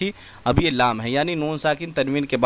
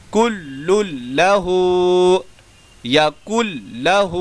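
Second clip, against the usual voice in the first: drawn-out chanted recitation; slow Quran recitation; much slower than usual. Shown as a demonstration. Teacher reciting the practice words for students to repeat, slow. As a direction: recite each phrase slowly, letting vowels ring.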